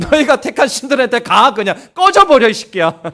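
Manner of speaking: God telling them off bluntly and loud; harsh rebuke. Acted. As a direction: tell them to get lost. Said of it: "이제 좀 세게 얘기하겠습니다".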